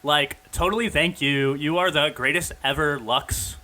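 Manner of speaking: put-on bubbly Valley Girl gushing; gushing fan in a Valley Girl accent. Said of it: "that hardcore Valley Girl accent".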